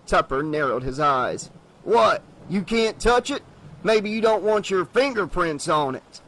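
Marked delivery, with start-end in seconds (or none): 1.8-6.2 suspicious sheriff. Acted. Sheriff taunts suspicious salesman.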